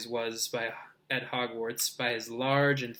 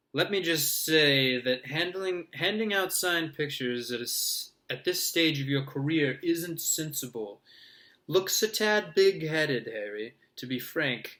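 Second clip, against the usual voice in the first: higher, lofty lecturing voice; pompous mentor; 3 semitones higher than usual. Acted. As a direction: patronise him grandly. Lockhart lecturing.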